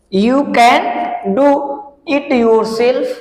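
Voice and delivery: You can do drawn out very slowly; teacher dictating slowly; slow example read. Shown as a demonstration. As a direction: read each word slowly for the class. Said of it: "कह रहा है क्या?".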